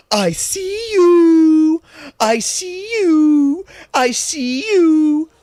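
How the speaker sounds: high, loud, drawn-out sing-song calling; shrill weirdo lady. Retold or imitated. Lady calling to a kid at the bus stop, loud and high. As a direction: sing it out to a toddler like a creepy stranger. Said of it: "she's just being a fucking weirdo".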